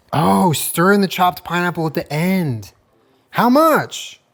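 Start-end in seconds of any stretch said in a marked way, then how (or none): 3.3-4.1 sudden, loud, high yell. While cooking from a recipe, yelling a question across the room. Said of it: "Sorry for yelling".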